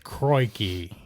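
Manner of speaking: mock Aussie "Crikey"; lightly hammed Australian exclamation; Australian accent. Shown as a demonstration. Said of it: "you had to say, like".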